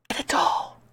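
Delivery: voiceless whisper, as a secret; whispered aside to Isaac. Acted. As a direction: breathe it like a tip between friends. Mock advice to the man.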